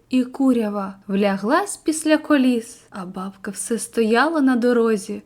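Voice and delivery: a gentle read-aloud of a sad village verse; poem recitation. Acted. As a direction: read it like a lyric poem to the class.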